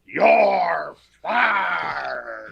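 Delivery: a loud bellowing boss impression; wrestling boss firing. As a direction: roar it like a ring announcer firing someone. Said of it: "he's gonna tell them".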